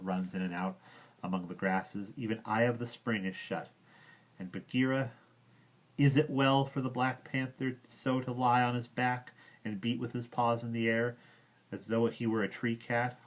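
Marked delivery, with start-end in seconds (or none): 2.2-5.1 lightly voiced boy, a touch higher; a hint of a teasing young boy; Mowgli's voice. Mowgli teases the panther, lightly higher boy voice. 6.0-9.8 put-on lightly higher boy asking; Mowgli asking. Mowgli first asks the panther, mildly. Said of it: "I say". 9.8-13.2 lightly voiced boy, a touch higher; a hint of a teasing young boy; Mowgli's voice. Mowgli teases the panther, lightly higher boy voice.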